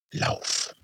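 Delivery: breathless whisper; urgent whisper in his head; whispered urging. Acted. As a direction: whisper it like an inner voice. Inner voice urging again.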